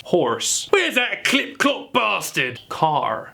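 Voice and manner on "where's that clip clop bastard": high, drawn-out mock British; British accent. Shown as a demonstration. Quickfire round for horse, exaggerated British accent. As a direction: overdo a British geezer, slow and pitched up. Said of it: "how to pronounce it".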